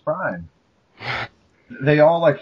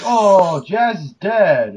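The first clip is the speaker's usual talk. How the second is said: mock mourning; 7 semitones higher, 3 dB louder, much slower than usual. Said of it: "everyone's like".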